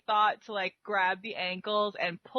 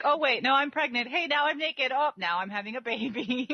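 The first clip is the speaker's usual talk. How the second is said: mock ditzy seductress; 5 semitones higher than usual. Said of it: "she's like".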